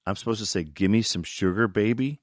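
mild disbelief, rising at the end; doubtful question. Retold or imitated. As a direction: query the line as if it's absurd. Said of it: "I was like".

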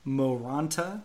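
"Moranta" said mo-RAHN-ta; "Moranta" with a full first vowel; pronunciation demo. Shown as a demonstration. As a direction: carefully sound the "Mo" in "Moranta". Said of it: "Reyes Moranta is M".

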